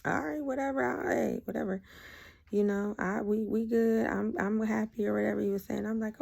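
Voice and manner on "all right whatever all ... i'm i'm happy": higher-pitched dismissive imitation; arrogant, sarcastic. Ex brushing off the breakup, imitated as sarcastic. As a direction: mimic him shrugging it all off. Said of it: "really arrogant and sarcastic, like, remarks".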